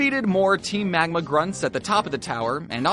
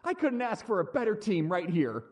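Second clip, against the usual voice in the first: softer, fond words to the team; tender affection; 3 semitones higher, 6 dB quieter than usual. Acted. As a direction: get gentle and sentimental with your team.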